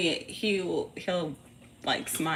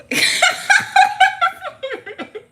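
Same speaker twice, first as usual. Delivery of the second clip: high, loud laugh; burst of laughter; 9 dB louder than usual. Real, not acted. Mother amused by her own warning, high loud laughing. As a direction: crack up mid-scolding.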